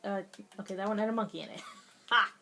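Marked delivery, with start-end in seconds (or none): 2.1-2.3 stiff, robotic single "Ha!". Real, not acted. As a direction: bark one mechanical laugh like a machine. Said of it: "I sound like a robot".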